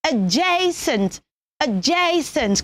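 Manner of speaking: adjacent as "uh-JAY-sent", stretched out; correct pronunciation. Shown as a demonstration. Teacher modelling a word for children, slow careful adjacent. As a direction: say adjacent slowly with a long JAY. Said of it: "The word is pronounced".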